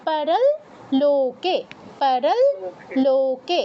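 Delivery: "পারল" ending on a held, nasalised l; half l sound. Shown as a demonstration. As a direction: model "পারল লোকে" in separate words, doubling the l across them. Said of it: "অনুসারের উচ্চারণ ল এর মতো হবে".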